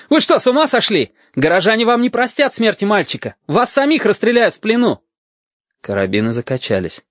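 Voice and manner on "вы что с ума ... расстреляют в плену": high, agitated protest; outraged cry. A narrator's reading. Officer warns sailors about killing the boy, crying out. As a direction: protest in a raised, urgent voice. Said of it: "крикнул Бенецкий".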